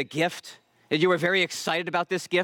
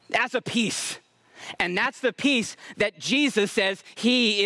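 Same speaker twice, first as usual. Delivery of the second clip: raised, ringing sermon delivery; emphatic preaching; 5 semitones higher than usual. Real, not acted. Preacher retelling Jesus asleep in the storm, emphatic preaching.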